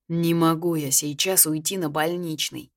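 ordinary delivery, nothing marked

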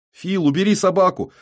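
high, loud urgent shout. Acted. Syava shouts into Fil's ear, high and loud. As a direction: yell it right in his ear. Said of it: "кричит мне в ухо Сява".

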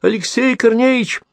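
high, slow desperate shriek; terrified call into the pit; frantic scream. A narrator's reading. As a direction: scream in a voice not her own. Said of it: "закричала не своим голосом".

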